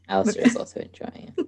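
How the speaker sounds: high, quick, soft little voice; high squeaky character voice. Acted. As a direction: chirp it like a tiny creature. Character voice aside.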